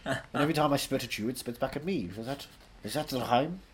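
lightly voiced Welsh raconteur; Anthony Hopkins. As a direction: hold forth as a theatrical Welsh actor.

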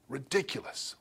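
soft, voiced sneer at the word ridiculous; quiet scoff. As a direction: sneer it under your breath. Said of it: "That's the tone of what's going on here".

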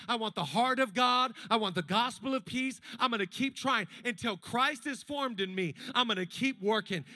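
loud, fired-up resolve, each line punched; determined vow. Retold or imitated. Disciple vows to become like Jesus, loud determined declaration. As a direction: declare it like a pledge you mean. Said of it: "You're like".

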